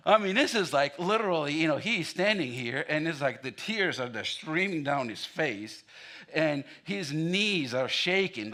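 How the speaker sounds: excited retelling. Real, not acted. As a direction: tell it like it still thrills you. Retells the real wedding moment.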